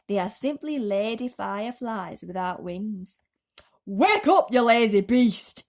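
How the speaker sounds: loud, slow gruff character voice; centipede. Acted. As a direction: lecture then yell at the glowworm. Centipede explains then yells.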